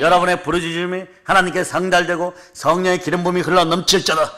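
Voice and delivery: rousing pulpit proclamation; fervent sermon delivery; full-force preaching. Acted. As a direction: preach it out to the congregation. Pastor proclaiming blessing.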